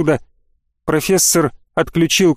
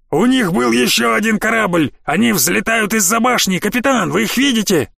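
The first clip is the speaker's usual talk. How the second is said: alarmed shout; 5 semitones higher than usual. Acted. Panicked bandits over the speakers.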